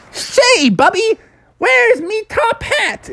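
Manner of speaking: fluster like a late cartoon groundhog. Phil asks for hat.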